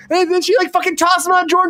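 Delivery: high, giddy, runaway riff; manic excited rant. Acted. Signing off to viewers, a wild high excited riff. Absurd story keeps escalating.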